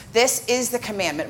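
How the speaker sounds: "is" stressed as the key word. Shown as a demonstration. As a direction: put the weight on "is". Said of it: "It is specifically on the word is".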